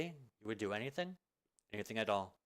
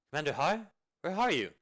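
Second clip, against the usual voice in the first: calling out; 5 semitones higher, 6 dB louder than usual. Acted. Searching, calling for someone.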